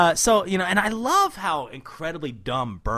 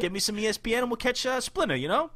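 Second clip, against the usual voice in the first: Baxter voice; 8 semitones higher than usual. Retold or imitated. Continues Baxter voice.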